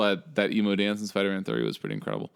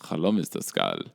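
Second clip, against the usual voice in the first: put-on a weak, lightly done German accent; barely-there joke German accent; 4 semitones lower than usual. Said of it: "that's my German accent".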